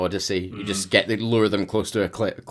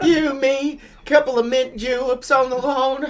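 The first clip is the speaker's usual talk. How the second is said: fake Oklahoma accent in a higher voice; 4 dB louder than usual. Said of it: "So glad it's not me with the accents".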